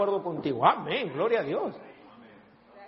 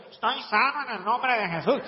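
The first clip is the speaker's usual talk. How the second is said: tentative, unsure declaration; unconvincing faith claim. Shown as a demonstration. Preacher showing a doubtful declaration, hesitant tone. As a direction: say it without believing it. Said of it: "puede que se te oiga así".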